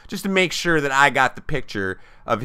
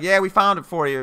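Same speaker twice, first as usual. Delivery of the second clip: put-on drunk bar guy; 8 semitones higher than usual. Drunk fans reply.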